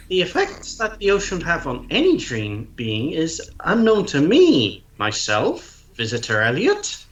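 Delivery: deep shifted voice for the owl; deep pitch shifted. Acted. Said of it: "I'm not talking to myself with a voice changer".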